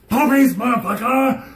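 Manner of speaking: Puppies shouted high and loud; gleeful yell. Pretend. To viewers, after bad news, gleeful loud shout.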